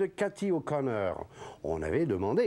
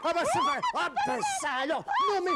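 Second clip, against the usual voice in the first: much higher, startled exclamations. Acted. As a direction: caught off guard, voice leaping up. Bobino startled by the bird.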